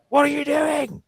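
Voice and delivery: imitating a wife catching him mid-moment; exasperated wife. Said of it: "my wife was like".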